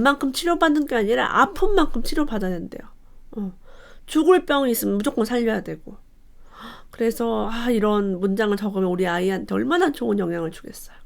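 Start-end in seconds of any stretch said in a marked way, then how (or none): none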